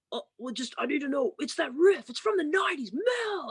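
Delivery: high, frantic imitation, building in pitch; mock yelling, rising to a high wail; retold screaming. Brother pestering sister about a riff, screaming. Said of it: "he just starts screaming at me".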